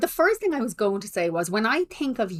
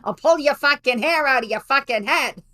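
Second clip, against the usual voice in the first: put-on terrible Boston accent; 6 semitones higher, 4 dB louder than usual. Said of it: "my terrible Boston accent".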